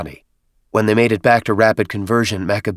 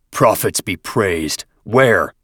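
slow praise, then sharp question; reverent then eager; 3 dB louder, much slower than usual. Acted. Chieftain reacts to news.

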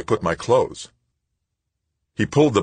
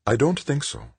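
reassuring; 11 semitones higher than usual. A narrator's reading. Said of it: "trying to sound reassuring".

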